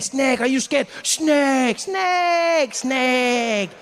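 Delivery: high, shouted snake taunts; taunting French dad. Retold or imitated. Father keeps taunting the scared comic, high shouted jeers. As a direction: keep jeering snake, high. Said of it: "He's like".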